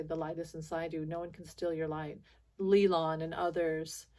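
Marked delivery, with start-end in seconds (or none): 0.0-2.2 sign-off line. Shown as a demonstration. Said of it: "and I say".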